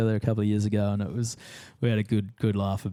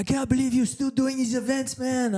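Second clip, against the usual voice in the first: high, incredulous mimic of a rival; high cheeky disbelief; mock Jeremy; 13 semitones higher than usual. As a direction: squeal it like he can't believe it. Imitating Jeremy teasing again.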